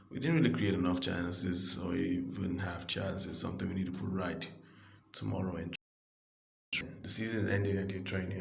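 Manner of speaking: a lightly voiced manager giving a press conference; mock coach press conference. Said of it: "I forgot how to do the German accent".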